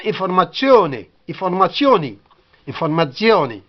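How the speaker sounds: "informazione" with a ts sound, stressed on O; Italian pronunciation. Shown as a demonstration. Teacher showing the Italian word, carefully sounded ending. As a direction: say "informazione" as in-for-ma-TSYO-ne, repeated. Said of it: "En italien".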